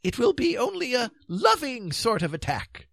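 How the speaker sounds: high, gentle, dithering king; mildly reassuring. A narrator's reading. King calming the stranded knights, mildly reassuring. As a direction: soothe them in a high voice. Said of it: "the king pointed out reassuringly".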